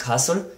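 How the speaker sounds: "castle" with a clear first syllable and weakened ending; first-syllable stress. Shown as a demonstration. Teacher illustrating English stress, "castle" strong first, weak after. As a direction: stress the ca of "castle", let the rest fade. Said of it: "vraiment avoir le K qui est prononcé".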